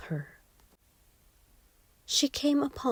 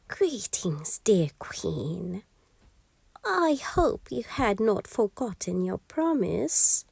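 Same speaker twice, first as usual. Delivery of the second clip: a hint of a sly goblin whisper; lightly voiced scheming imp, hushed; sly little imp bargaining in a hush; whispery imp. Imp returns for the child.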